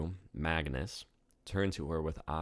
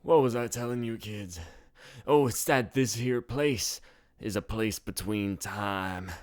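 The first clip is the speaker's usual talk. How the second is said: put-on higher, slow mysterious old-timer; old barkeep storyteller; 6 semitones higher, 4 dB louder than usual. A narrator's reading. Bartender spinning a mysterious yarn for tourists, slow and higher. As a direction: draw the kids in with a tall tale.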